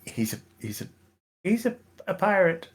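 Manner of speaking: quiet reply. Acted. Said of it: "looks up at her and goes".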